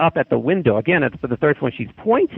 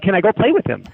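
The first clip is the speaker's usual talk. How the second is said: higher-pitched imitation of an insistent kid; demanding child; 7 semitones higher than usual. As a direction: plead like a demanding child, lightly acted. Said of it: "I'm really demanding".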